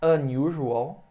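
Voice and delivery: "unusual" drawn out very slowly; teacher modelling English; slow model word. Shown as a demonstration. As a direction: stretch "unusual" out so the class can catch it. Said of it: "como por exemplo a palavra".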